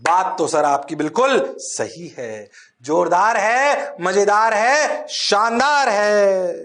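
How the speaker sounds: a lightly voiced eager student, slow with rising ends; mock student reply. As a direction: play the class agreeing in chorus. (छात्रों की नकल करते हुए)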